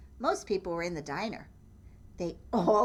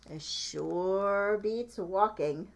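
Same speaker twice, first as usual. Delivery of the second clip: slow content thought; much slower than usual. Acted. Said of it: "what they thought".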